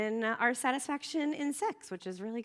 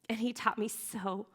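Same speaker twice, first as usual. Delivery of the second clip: getting emotional; slower than usual. Real, not acted. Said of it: "Sorry, I get emotional about it".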